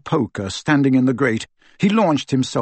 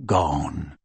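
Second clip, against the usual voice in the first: one low, defeated word; Kreacher's voice; 8 semitones lower, 4 dB quieter than usual. Acted. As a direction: drop it low and heavy like a broken old elf. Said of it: "Kreacher closed his eyes".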